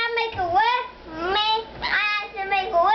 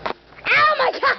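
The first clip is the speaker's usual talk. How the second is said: surprised; 5 semitones higher, 3 dB louder, slower than usual. Real, not acted. Dog grabs the camera.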